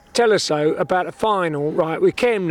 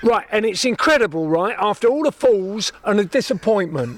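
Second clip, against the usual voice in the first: put-on London accent; 4 semitones higher than usual. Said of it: "I'll be Seb".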